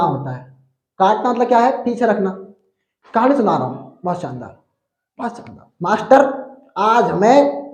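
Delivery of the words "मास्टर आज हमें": lightly voiced street vendor hawking wares, slow on the last call. Teacher voices a vendor to make students laugh, hawking. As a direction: call out the goods like a market seller.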